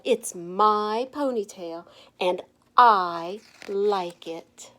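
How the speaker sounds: slow, deliberate, a little proud; slow defiant reply. Acted. Stephanie to the teasing kids, slow and defiant. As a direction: take your time, owning every word.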